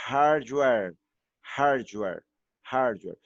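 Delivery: hardware repeated clearly with H and R; model pronunciation. Shown as a demonstration. Teacher modelling the word for students to copy. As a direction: say hardware three times, careful. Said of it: "eu vou fazer a pronúncia".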